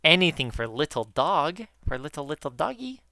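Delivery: put-on sing-song baby talk to a pet; baby talk to dog. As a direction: coo it like talking to your dog. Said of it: "That's what I say to Diego a lot".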